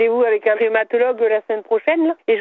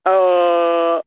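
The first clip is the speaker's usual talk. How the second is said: a lower ahh on demand; 4 semitones lower than usual. Pretend. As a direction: drop the ahh down. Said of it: "un A plus grave". (un « ah » plus grave)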